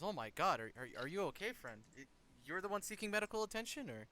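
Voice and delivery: alarmed guard. Acted. Guard's eyes go wide.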